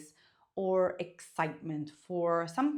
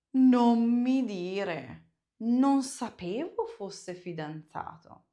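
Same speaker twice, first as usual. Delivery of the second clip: amazed disbelief; 6 dB louder, slower than usual. Shown as a demonstration. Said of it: "For something that you think is incredible".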